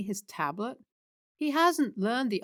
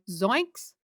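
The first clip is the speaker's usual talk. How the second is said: Scooby. Retold or imitated. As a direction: exclaim it like a startled cartoon character. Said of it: "worst Scooby impression".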